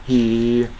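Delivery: "He" as one long pure "hee"; single vowel. Shown as a demonstration. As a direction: hold the ee of "He" with nothing after it. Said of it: "heとだけ言ってるみたい".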